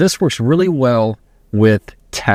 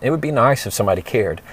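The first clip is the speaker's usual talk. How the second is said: quick, softer sarcastic aside; snide aside; 4 dB quieter, faster than usual. Retold or imitated. Passive-aggressive person muttering a jab, quick and softer. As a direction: slip "It would be nice if somebody cared" past them sideways. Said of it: "if they were to make that comment".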